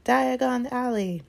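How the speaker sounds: "Diagon Alley!" shouted high, loud and slow. A narrator's reading. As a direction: call out "Diagon Alley!" into the roaring flames. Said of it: "stepped right into it and shouted".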